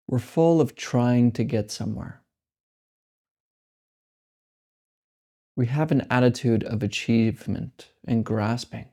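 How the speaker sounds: slow, calm meditation guidance with long pauses; guided meditation. Acted. Teacher guides listeners through meditation, slow and calm. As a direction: ease listeners into letting go.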